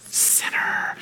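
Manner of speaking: SINNER drawn out in a soft, voiceless whisper; whispered, stretched SINNER; dragged-out muttered sinner. Acted. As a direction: drag the word SINNER out under your breath, mock-disapproving. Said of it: "They just dragged the word out".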